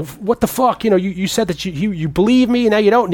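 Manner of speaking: mock angry accusation. Heroine berating Gutenberg's character, high mock anger. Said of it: "But she's like".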